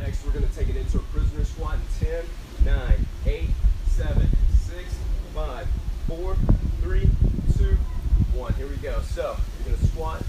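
loud workout coach calls. Acted. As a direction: call it out over the music. Coaching loudly over squats.

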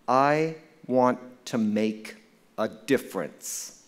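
slow, deliberate, spaced-out appeal; earnest retold plea. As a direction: quote a student's heartfelt request, phrase by phrase.

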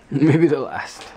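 laughing while repeating it. Real, not acted. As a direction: chuckle through the words. Laughing echo of friend's line.

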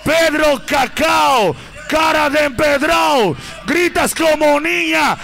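shouted, rising hype insults. Acted. MC roasting a rival over the crowd, shouting. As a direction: roast him at full volume.

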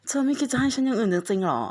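mock plea. Pleading with the game character.

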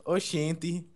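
a hint of put-on northeastern Brazilian accent; imitated Nordestino accent. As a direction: lightly imitate a Nordestino exclamation. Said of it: "Só tô falando como é que eles falam". (leve sotaque nordestino imitado)

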